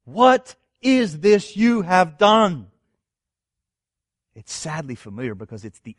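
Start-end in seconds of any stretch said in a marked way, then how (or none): 0.0-2.7 slow, raised, grieved question; heart-wrenching. Shown as a demonstration. Preacher reading God's question to Israel, heart-wrenching. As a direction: let the question ache, drawn out. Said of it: "heart-wrenching and sadly familiar words".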